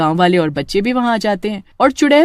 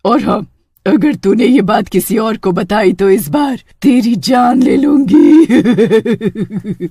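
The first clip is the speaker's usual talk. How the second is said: witch threat. Acted.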